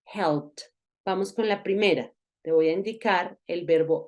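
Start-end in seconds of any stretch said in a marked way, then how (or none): 0.0-0.6 "helped" in one syllable ending in T. Shown as a demonstration. Teacher models the second case, "helped" with ED as T. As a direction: end "helped" on a struck T. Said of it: "vamos a pronunciar como una T".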